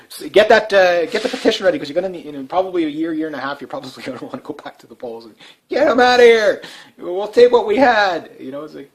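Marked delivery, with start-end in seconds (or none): 5.7-8.3 higher, louder fed-up cry to throw them out; mock voter outcry. Voters demanding the old government back, in a mock outcry.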